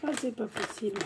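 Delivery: stuffy nose, about to blow it. Real, not acted. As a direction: talk through a blocked nose. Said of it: "il faut que je me mouche le nez".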